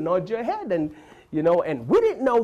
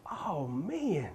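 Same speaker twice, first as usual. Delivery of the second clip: clueless American; 3 semitones higher, 4 dB quieter, slower than usual. Retold or imitated. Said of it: "they'll be like".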